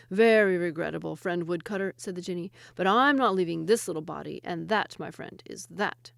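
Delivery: loud, mocking jinni; smug jinni. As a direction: tease him comfortably. Jinni refuses again.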